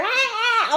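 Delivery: mock yelling. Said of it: "all this yelling".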